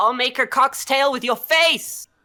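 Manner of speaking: very high, very loud, shrill ear-splitting screech. Voicing the captive as he screeches at Morgan, in a screeching voice. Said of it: "He he he screeches at you".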